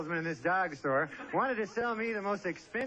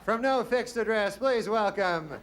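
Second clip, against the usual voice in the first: lightly voiced show host, a bit raised; game show announcer. Host introducing a dodgy bachelor, lightly voiced announcer. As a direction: give the contestant a mock TV introduction. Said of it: "the way they introduce him".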